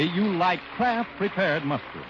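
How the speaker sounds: ordinary delivery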